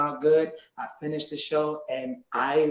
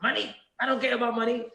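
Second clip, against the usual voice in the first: higher, lightly voiced carefree singer shrugging off money; a light, pitched-up take on an easygoing star; higher, mild dismissive laid-back legend; a reggae legend; 9 semitones higher, faster than usual. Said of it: "You know".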